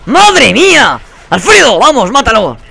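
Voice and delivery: loud, high-pitched panicked yells; real gamer shout; frantic shouting. Real, not acted. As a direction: yell for your teammate in mid-fight. Shouting as teammate attacks, dies.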